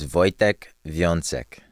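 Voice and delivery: slow Polish pronunciation of the name; name given its Polish sounds; Polish accent. Real, not acted. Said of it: "You said it with the accent too".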